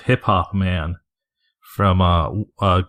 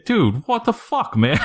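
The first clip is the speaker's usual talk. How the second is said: high, laughing fake anger at a fan; mock angry fan, pitched up through laughter; laughing mock outrage; 11 semitones higher, slower than usual. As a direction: squeak it out while cracking up. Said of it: "like, angrily chanting it".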